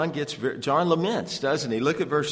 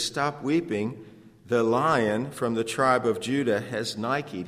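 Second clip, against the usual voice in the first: elder's rebuke; slower than usual. Acted. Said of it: "He says".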